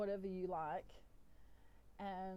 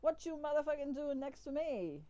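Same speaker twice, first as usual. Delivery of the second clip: higher, indignant animal character; bad Donkey voice; 6 semitones higher, 4 dB louder than usual. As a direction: challenge them in a mock-tough cartoon voice. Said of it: "donkey goes".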